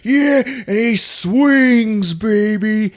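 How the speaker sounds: high, loud, drawn-out hype; hammed-up action narration; excited climax. A narrator's reading. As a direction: belt out the big swing. Climax of sword swing.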